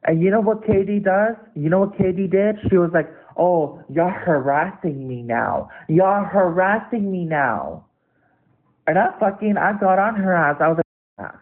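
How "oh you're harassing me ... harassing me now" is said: slow, drawn-out mock complaint; playing the victim. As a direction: imitate someone playing victim, dragging the words. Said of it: "you wanna play fucking victim".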